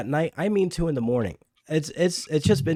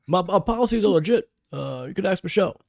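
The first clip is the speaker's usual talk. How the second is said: president impression; 6 semitones higher, 4 dB louder than usual. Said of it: "impersonation of every president".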